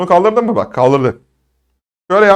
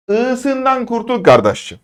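high, drawn-out exhortation; slow pitched-up urging; 8 semitones higher, slower than usual. Shown as a demonstration. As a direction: stretch it out, pleading with the pupil. Teacher urging students to drop vowel.

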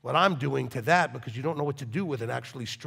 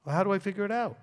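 higher, mock helpless asking; imitated helpless question; 4 semitones higher, much faster than usual. Congregant asking the rabbi for help, mock helpless. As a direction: mimic a clueless person asking. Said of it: "You're like".

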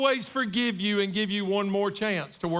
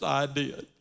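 sheepish small daughter; 7 semitones lower than usual. Retold or imitated. Daughter voiced in retold story.

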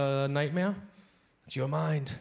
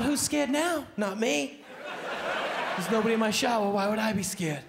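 higher mock-brave boast; relieved bravado; 6 semitones higher than usual. Comic brags after finding no one in the shower, higher boast. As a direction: crow about not being scared.

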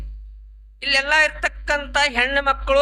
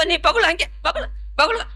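mock tearful; 4 semitones higher than usual. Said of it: "ಯಾಕ್ ಬೇ ಅಳಕತ್ತಿ".

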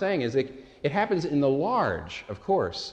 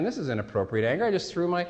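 defensive protest; 5 semitones higher than usual. Retold or imitated. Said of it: "I'm saying".

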